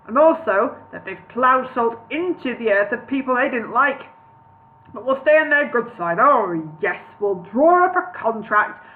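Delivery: lightly put-on comic wizard voice; Mister Bean. Wizard explaining the dwarf guests to Bingo, light Mister Bean voice. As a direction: ramble on as a slightly silly wizard. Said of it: "Why did I choose Mister Bean for Gandalf?".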